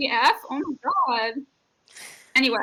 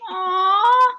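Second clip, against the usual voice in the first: fond cooing; 6 semitones higher, 3 dB louder, much slower than usual. Real, not acted. Fond reaction to a cute gesture.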